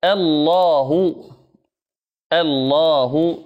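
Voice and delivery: الله said very slowly with a thin hamza; careful recitation; light hamza demo. Shown as a demonstration. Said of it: "اهدنا".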